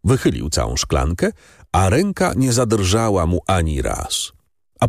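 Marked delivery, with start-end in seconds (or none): none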